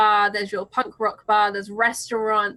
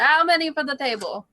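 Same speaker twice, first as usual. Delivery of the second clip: put-on terrible Italian accent; 4 semitones higher than usual. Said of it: "In a terrible Italian accent".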